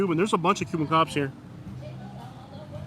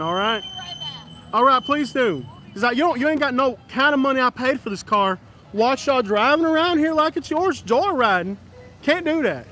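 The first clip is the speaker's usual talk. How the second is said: mock scolding; 4 semitones higher than usual. Car owner scolding joyriders in his car, mock telling-off. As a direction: chew them out like it's your car.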